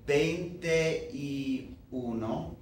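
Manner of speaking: "veinte y uno" slowed, all three vowels spoken; "veinte y uno" said out in full, the way people would not say it; every vowel said. Shown as a demonstration. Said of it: "people would not say".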